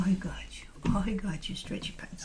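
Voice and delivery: whispered pet name. Real, not acted. Holding her dog, whispered pet name. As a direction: breathe the nickname softly.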